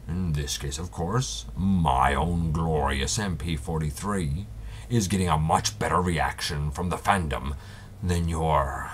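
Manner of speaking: grandiose Megatron, lightly voiced; over-dramatic villain. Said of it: "very over dramatic and really theatrical".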